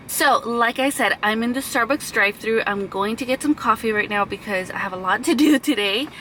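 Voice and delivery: talking with puffy cheeks after dental work; slightly numb mouth from the dentist. Real, not acted. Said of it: "if my cheeks are puffy and if I'm talking a little bit weird".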